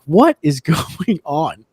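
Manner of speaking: slow, laughing through the words in disbelief. Retold or imitated. Agent in disbelief after lawsuit threats, laughing slowly. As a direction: let the laugh break up a baffled question.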